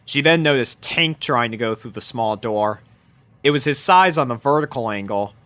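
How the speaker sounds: ordinary delivery, nothing marked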